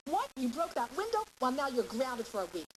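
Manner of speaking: a hint of an exasperated parent; mock parent scolding. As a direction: pitch jumps high on the broken window, indignant. Parent scolding a child unfairly.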